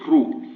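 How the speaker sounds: "ru" darkened in the throat; emphatic r. Shown as a demonstration. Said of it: "this ru here is emphatic".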